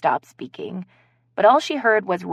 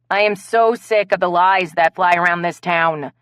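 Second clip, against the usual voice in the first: louder, exasperated rant; sick-of-it angry complaint; fed-up outburst; 6 dB louder than usual. Acted. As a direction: vent the frustration hard. Blaze fed up, furious.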